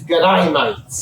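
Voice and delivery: Aussie g'day, vowel like "die"; Australian accent. Shown as a demonstration. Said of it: "the typical Australian, uh, expression is".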